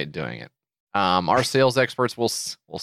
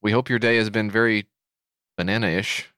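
call center agent; 3 semitones higher than usual. Pretend. Plays phone company support agent.

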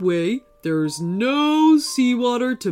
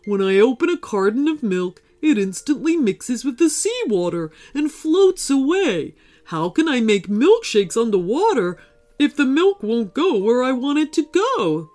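sad; 4 semitones higher, 3 dB louder than usual. Acted. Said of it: "explained Gordon sadly".

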